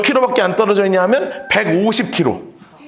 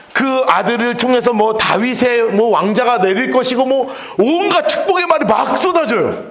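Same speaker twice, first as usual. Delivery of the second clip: ordinary talk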